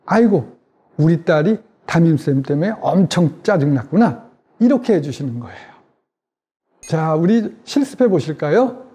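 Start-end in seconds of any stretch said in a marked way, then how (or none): 0.0-4.3 empathetic mirroring. Shown as a demonstration. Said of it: "아이 얼굴을 그대로 따라하면서".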